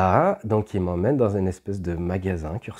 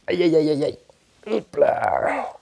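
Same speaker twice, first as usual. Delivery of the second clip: sudden much higher, louder yelps of alarm; alarmed aïe aïe; 8 semitones higher, 5 dB louder, much slower than usual. Real, not acted. Owner watching the dog pull the camera cable, high loud alarmed yelps. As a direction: yelp as the cable comes loose. Cable about to snap loose.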